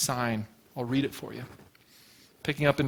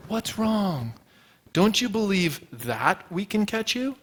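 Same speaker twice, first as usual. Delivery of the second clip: gentle voice; 4 semitones higher than usual. Retold or imitated. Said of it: "comes along with a gentle voice".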